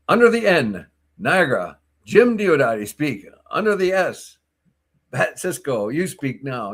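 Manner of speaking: sing-song bingo call; bingo caller. Pretend. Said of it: "the bingo caller".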